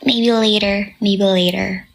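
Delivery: playful sassy tone, drawn out at no, no, no. Retold or imitated. Singer doing a sassy fan-service line for fans. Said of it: "Tapos biglang sassy yung".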